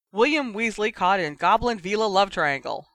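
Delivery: loud, high mock headline; a brother's loud joking announcement; gleeful headline. A narrator's reading. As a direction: crow out the joke.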